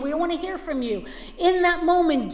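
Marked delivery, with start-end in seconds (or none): 0.0-1.0 rebuking. Acted. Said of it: "they're rebuking him".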